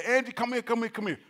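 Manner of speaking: retold excited beckoning; excited summons. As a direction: imitate a man urgently calling his wife in. Caller calls his wife over.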